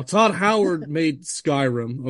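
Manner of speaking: slow stoned drawl; stoner. Real, not acted. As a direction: say it slow and high, baked. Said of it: "I'm high right now".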